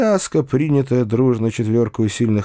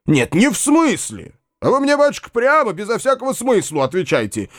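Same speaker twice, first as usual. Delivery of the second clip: impatient demand; 10 semitones higher than usual. A narrator's reading. Landowner insisting the narrator answer, high and impatient. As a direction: cut off his evasion sharply.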